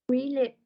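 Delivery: "relate" with the weight on "re"; stress on first syllable. Shown as a demonstration. Teacher giving an example of two-syllable stress, "relate" stressed at the start. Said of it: "the first syllable is".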